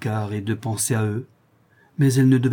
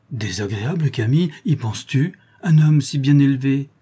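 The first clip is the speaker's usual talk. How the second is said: mock outraged cry, louder on the last phrase; indignant exclamation; 3 semitones higher, 4 dB louder than usual. Aunt Belle protesting to Camille, indignant exclamation. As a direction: protest in shocked disbelief. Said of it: "s'écria la tante Belle".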